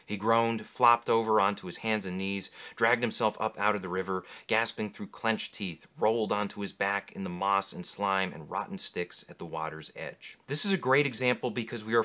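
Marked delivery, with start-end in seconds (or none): 0.0-10.4 low, measured reading of a novel; story narration. A narrator's reading. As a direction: read it like an audiobook narrator. Reads novel excerpt aloud.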